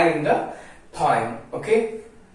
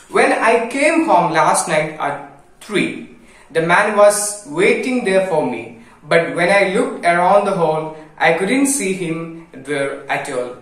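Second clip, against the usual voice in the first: poem recitation. Acted. Teacher reading the second stanza aloud, rhythmic.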